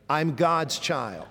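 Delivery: slow, evenly spaced words for others to join; leading recitation. Shown as a demonstration. Preacher leading a congregation to say it with him, slow recitation. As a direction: lead a room in saying it slowly. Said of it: "Say it with me".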